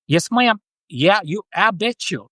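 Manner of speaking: amateur Southern belt-it-out "yes, ma'am" accent; awful Southern accent. Shown as a demonstration. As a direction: do a badly faked Southern US accent. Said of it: "sound like I'm from the South".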